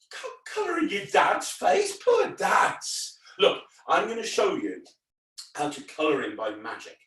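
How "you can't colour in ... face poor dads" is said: mock shock. Entertainer pretends outrage at colouring dad's face. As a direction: gasp then high pretend outrage.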